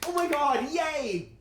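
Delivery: very high, loud squealing joy with laughs; overjoyed. Retold or imitated. Cheering a friend's news with loud squealing delight. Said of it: "jump up and down and go".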